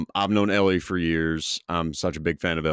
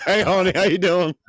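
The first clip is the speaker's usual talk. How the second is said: mocking echo; 10 semitones higher, 4 dB louder, faster than usual. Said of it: "That's your impression of me?".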